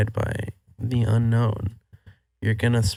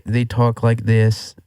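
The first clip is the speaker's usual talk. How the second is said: mock German accent; slower than usual. Shown as a demonstration. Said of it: "This is the accent for the English".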